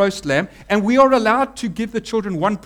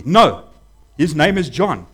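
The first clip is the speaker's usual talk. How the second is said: louder, firm no, name stated flat; emphatic no; 2 semitones lower, 5 dB louder than usual. Retold or imitated. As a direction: refuse flatly, no debate. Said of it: "that was emphatic".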